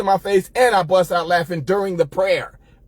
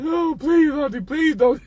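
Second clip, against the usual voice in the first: high mock-whiny begging; boy begging his auntie not to whip him, high mock wail; mock pleading; 6 semitones higher than usual. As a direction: beg like a crying kid, hammed up. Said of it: "Now I'm bawling, I'm crying".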